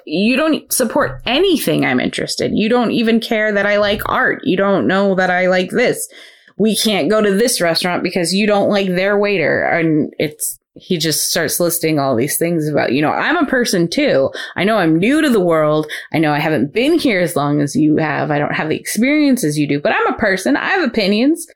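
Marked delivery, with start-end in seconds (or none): 0.1-9.6 higher-pitched, pleading rant of complaints; exasperated outburst. Retold or imitated. Boyfriend finally snaps at his self-centred girlfriend, exasperated. 13.1-21.5 indignant plea. Retold or imitated. Boyfriend demanding his girlfriend respect him, indignant.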